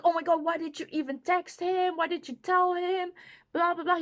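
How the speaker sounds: imitating his high-pitched, mad protest; mock upset. He confronts her for texting his friend, imitated high-pitched anger. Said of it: "He got so mad".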